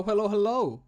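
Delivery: ordinary talk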